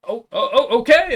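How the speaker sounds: high, loud startled imp squeaks; flustered imp voice. Acted. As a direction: yelp it out, hurrying to obey.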